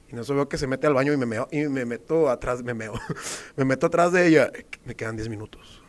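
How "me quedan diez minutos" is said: soft, low imitation; quoting the girl. Girl to him in the bathroom, softly imitated. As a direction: repeat her come-on quietly, pitched down. Repeating the girl's whispered line.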